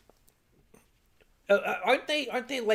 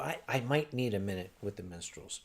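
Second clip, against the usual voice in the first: low rueful echo; 11 semitones lower, 9 dB quieter than usual. Real, not acted.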